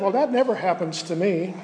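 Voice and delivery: dry sarcastic aside with a laugh. Retold or imitated. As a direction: say it with a wry, sarcastic chuckle.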